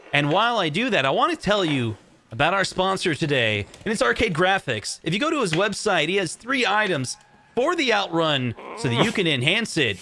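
playful live ad read; sponsor pitch. Pretend. Host filling time with a sponsor plug, sales pitch. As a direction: pitch it like a paid sponsor spot. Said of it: "do pitches like this".

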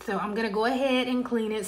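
slight lisp on the s sounds. Real, not acted. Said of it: "Sorry for the lisp".

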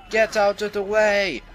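high, loud, drawn-out shout; mock panicked yell. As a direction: yell it slowly like a cartoon bystander. Imagined truck victims yelling in panic.

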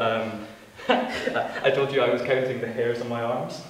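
laughing while talking. Real, not acted. Laughs through awkward admission.

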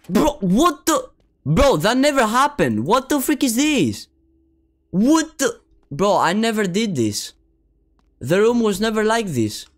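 high-pitched, baffled protest; incredulous outcry. Real, not acted. Player denying the room's mess, incredulous. Player shocked by wrecked game room.

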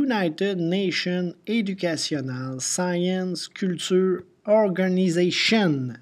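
slow English with a French-speaker's accent; not-very-good English accent. Real, not acted. Teacher spells out UNESCO's name for students, imperfect English accent. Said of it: "avec mon super accent anglais qui est pas très bon".

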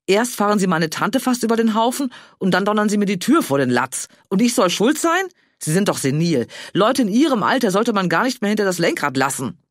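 high, loud furious shouting; yelling. Acted. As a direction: rage at the old driver at full volume. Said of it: "Inzwischen brüllte Johanna".

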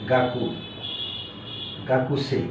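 গাকুসেই with every syllable sounded, the u clearly voiced; full u spelled out. Shown as a demonstration. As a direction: say গাকু slowly and fully, then গাকুসেই. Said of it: "আসল উচ্চারণটা হবে".

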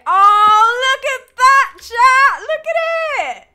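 high, loud delighted squealing; excited squeal. Real, not acted. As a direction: gush over something adorable. Streamer squeals at cute thing.

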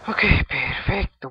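loud, slow, drawn-out celebration; triumphant cry. Real, not acted. Gamer pleased with how it went, loud triumphant cry. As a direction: belt it out slowly in triumph.

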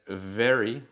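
"very" with a real v, teeth on the lip; "very" starts with a clear v; v sound in very. Shown as a demonstration. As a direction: buzz the v at the start of "very". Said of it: "suenan diferente".

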